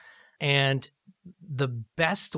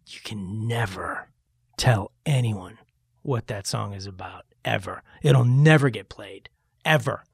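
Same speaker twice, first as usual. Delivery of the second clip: low, halting mock-stern warning; 4 semitones lower, 3 dB louder than usual. Friend warns singer never to explain the song, imitated sternness. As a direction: lightly imitate a grave warning, word by word.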